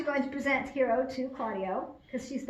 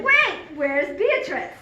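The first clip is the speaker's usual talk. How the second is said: urgent interruption; 3 semitones higher, slower than usual. Acted. Acts Benedict jumping in to interrupt.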